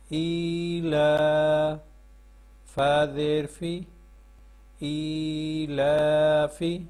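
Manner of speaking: slow sing-song spelling chant, drawing out each joined word; measured classroom recitation of the Noorani Qaida. Shown as a demonstration. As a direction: chant each letter and its vowel for pupils to repeat. Teacher chants spelling drill.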